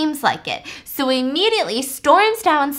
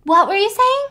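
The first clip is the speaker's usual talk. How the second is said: higher, airy and vague; a higher, dizzy woman's voice; dazed high voice; 9 semitones higher, 6 dB louder than usual. Retold or imitated. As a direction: sound spaced out after the bonk. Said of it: "she's like".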